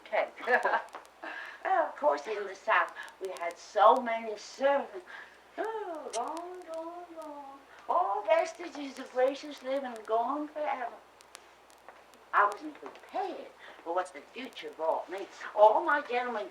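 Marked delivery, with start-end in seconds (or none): 5.6-10.9 wistful lament. Acted. Mother laments lost gracious living.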